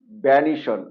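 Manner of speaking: "ভ্যানিশন" ending in one syllable shon; correct SHON ending. Shown as a demonstration. Teacher gives the correction, "ভ্যানিশন" ending in shon. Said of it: "recap".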